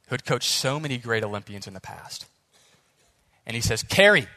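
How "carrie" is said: put-on loud, high coach's call with a Russian accent; urgent Russian-accented command. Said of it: "He's got, like, a Russian accent".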